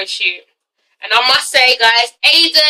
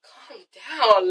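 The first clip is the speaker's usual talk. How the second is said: calm soothing; 3 semitones lower, 6 dB quieter than usual. Retold or imitated. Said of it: "Phaedra was like".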